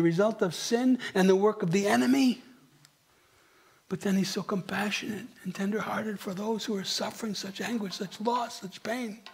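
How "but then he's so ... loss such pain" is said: softer, fading with compassion; softening into a compassionate hush; tender. Real, not acted. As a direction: let it melt into tenderness. Tender description of Christ.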